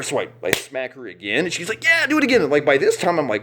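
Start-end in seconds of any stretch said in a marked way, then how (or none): 1.8-2.4 squeaky, very high and loud plea for more; mock eager begging. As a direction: ham up her shrill eager demand. She demands another slap.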